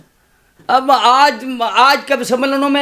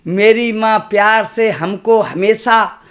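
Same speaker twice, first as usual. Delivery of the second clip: measured, rhythmic stage recitation of a poem; slower than usual. Acted. Poet reciting verse to a kavi sammelan crowd, rhythmic. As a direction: recite to the audience with a steady beat.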